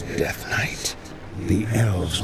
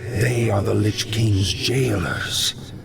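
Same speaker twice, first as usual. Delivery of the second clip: half-whispered spirit speaking in the mind; telepathic voice. Acted. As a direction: ghostly voice inside his head. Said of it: "Only you can hear me".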